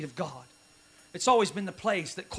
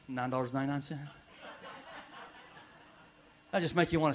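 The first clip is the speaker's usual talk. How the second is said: sarcastic aside; 3 semitones lower than usual. Acted. Pastor mocking Christian bookstores to the congregation, dry sarcasm. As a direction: tease the church merchandise. Sarcastic comic bit, softer.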